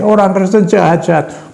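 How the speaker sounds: high mock yell, dragged out; retold shout. Husband shouting so the whole ward hears, high mock yell. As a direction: hurl it like an angry husband. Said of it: "Keras sekali".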